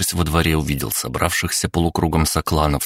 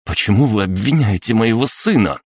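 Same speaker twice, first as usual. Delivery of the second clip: defiant; 6 semitones higher, 4 dB louder than usual. A narrator's reading. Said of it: "с вызовом бросила мама".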